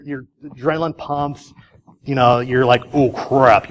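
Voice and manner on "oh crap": mock freaking out. Driver whose adrenaline pumps at a deer, mock freaking out. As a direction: act a driver's sinking realization, understated. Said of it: "You're really freaking out".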